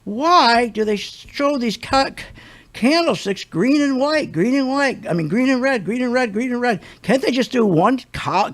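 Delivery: aggravated disbelief. Retold or imitated. Complaining about green and red candlesticks, aggravated. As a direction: demand answers, aggravated and incredulous. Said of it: "Just being aggravated, I couldn't believe it".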